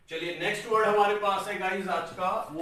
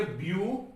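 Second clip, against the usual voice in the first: 'ब्यू' alone, followed by a pause; syllable split; 2 semitones higher, much slower than usual. Shown as a demonstration. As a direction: demonstrate 'ब्यू' as one separate syllable. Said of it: "ब्यूटीफुल में कैसे बोलेंगे". ('ब्यू' को अलग खंड में बोलें)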